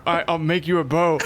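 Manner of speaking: laughing. Real, not acted. GM laughing while speaking.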